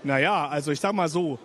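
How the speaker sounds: low, playful seductive voice; deep flirty voice. Pretend. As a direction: purr it low as a tease. Flirty joke about undressing.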